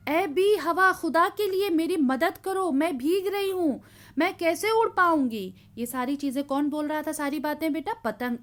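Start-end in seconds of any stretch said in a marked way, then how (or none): 0.1-5.5 higher, louder desperate plea; a mild mock cry of a soaked kite begging the wind; cry for help. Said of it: "पतंग चिल्लाई". (भीगती पतंग की ऊँची, घबराई पुकार)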